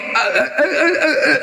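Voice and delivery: rising stuttering eh, eh, eh; imitating stammer. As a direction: stammer like you cannot speak. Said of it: "Ngomongnya gini".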